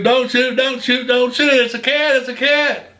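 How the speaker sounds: replaying a desperate plea to hold fire; retold frantic yell. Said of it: "I'm screaming at Block not to shoot".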